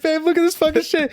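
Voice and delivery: high, put-on Scottish voice to his wife; mock Scottish accent. Mock Scottish accent to his wife about the Scottish friend. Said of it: "he has this crazy Scottish accent".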